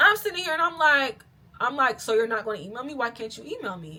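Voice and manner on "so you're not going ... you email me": cool, calm, sarcastic smart-ass delivery. Retelling own reply to a yelling caller: imitating own calm smart-ass reply. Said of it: "calm as shit".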